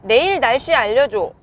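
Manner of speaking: loud clear spoken command; talking to voice assistant. Real, not acted. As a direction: ask the car clearly and loudly. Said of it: "말로도 부를 수가 있거든요".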